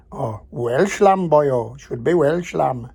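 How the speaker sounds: a mock Welsh lilt, slowing on Welsh lamb with a cheeky boyo; hammed-up Welsh accent, jokingly insisting on Welsh lamb; poor Welsh accent. Vlogger teasing Brits on board about the lamb, in a poor mock Welsh accent. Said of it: "poor accent".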